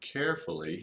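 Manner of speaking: the word carefully stressed. Showing how to take the metal band off a cigar, stressing the word carefully. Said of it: "I stress the word carefully".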